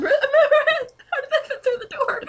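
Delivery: high, slow, laughing and breaking; incredulous laugh. Real, not acted. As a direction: barely get it out for laughing. Laughing at the absurd text.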